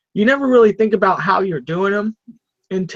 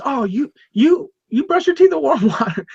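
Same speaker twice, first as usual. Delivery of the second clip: mocking; 7 semitones higher than usual. Jason mocking in retold story.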